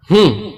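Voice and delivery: a second short dismissive hmm; mock contemptuous hmm; scornful hum. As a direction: brush it off with a hum. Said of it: "ہوں کی آواز نکالی".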